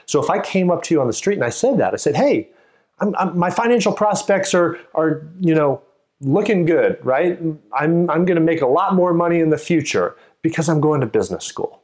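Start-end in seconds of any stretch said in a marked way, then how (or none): 2.2-11.8 higher, upbeat bragging; eager boast. Shown as a demonstration. Teacher acting a stranger boasting about business school, upbeat. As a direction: sell your big plan with a grin. Teacher acts out announcement again.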